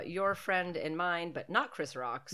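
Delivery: slow, deliberate running gag; slow deadpan quip. Shown as a demonstration. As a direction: drawl it out as a dry joke. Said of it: "That's what I'm gonna say".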